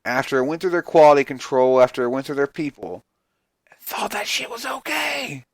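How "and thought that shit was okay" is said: whisper. Real, not acted. Ranting about editors approving it.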